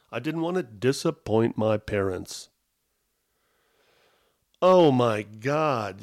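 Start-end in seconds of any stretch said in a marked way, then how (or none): 4.6-6.0 slow, loud exasperated groan; drawn-out exasperated disbelief. Real, not acted. Reacting to his own journal.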